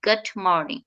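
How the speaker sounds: গুড মর্নিং run together, গুড nearly swallowed; fast American greeting. Shown as a demonstration. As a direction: slur গুড into মর্নিং quickly. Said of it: "just like that".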